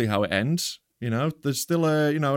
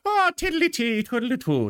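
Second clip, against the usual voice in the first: mock sing-song; 8 semitones higher than usual. Teasing sing-song mockery.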